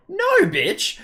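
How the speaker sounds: no, bitch, shouted high and loud; emphatic shout. Real, not acted. To people who ask if she comforts her, a loud high retort. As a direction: snap back with a loud high yell.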